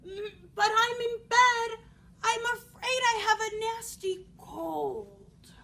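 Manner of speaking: high, slow fake granny; scratchy voice. A narrator's reading. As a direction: play a poorly grandmother, scratchy and drawn out. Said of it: "came a scratchy voice from the bedroom".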